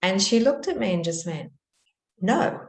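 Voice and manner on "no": a sharp, loud mock-childish "No"; imitating a defiant daughter. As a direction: throw back a curt, loud refusal. Angry daughter answers back.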